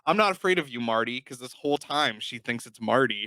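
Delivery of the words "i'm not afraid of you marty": defiant film quote. Retold or imitated. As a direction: re-enact the heroine standing up to him. Corrected retelling of the closing line.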